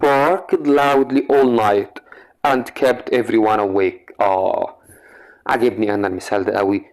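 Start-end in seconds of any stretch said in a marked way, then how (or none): 0.0-4.2 slow, clear reading of the example. Shown as a demonstration. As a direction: read the sentence slowly and clearly. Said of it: "بيقول لي". (قراءة بطيئة وواضحة)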